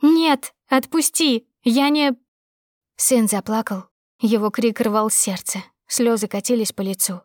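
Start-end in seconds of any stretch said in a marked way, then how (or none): 0.0-2.1 high loud panicked cries; desperate shouting. Acted. Wife dragged by her hair, shouting to be let go. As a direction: fight him off, yelling.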